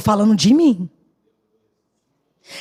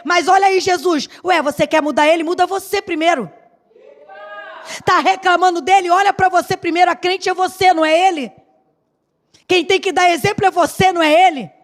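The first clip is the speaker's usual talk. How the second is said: higher, brisk rebuke; stern Jesus scolding; 3 semitones higher, faster than usual. Pretend. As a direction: tell her off, pointed and firm. Jesus scolding her, voiced. (bronca firme e aguda)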